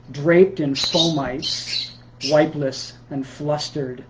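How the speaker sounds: measured poem recital with deliberate pauses; poetry reading. Acted. Poet reading new pandemic work to Sunday listeners, measured recital. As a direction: read it as verse, phrase by phrase, pausing between lines. Reads own poem aloud.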